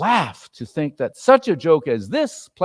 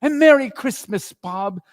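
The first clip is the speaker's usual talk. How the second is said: earnest; 8 semitones higher, 5 dB louder than usual. A narrator's reading. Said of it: "with an earnestness in his voice".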